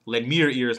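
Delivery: "me" picked out as the key word; stress on me. Shown as a demonstration. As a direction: lean on "me", not anybody else. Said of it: "Second one".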